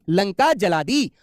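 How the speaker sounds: "लंका जला दी" drawn out word by word; very slow. Shown as a demonstration. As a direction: stretch each word for the class to hear. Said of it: "जैसे मैंने कहा". (बहुत धीरे-धीरे, शब्द खींचकर)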